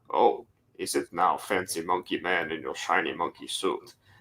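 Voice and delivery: muttered under breath. Voicing a character insulting a guard: muttered under his breath. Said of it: "Under his breath".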